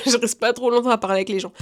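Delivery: owning up to her own bluntness, laughing. Real, not acted. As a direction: repeat it through a laugh.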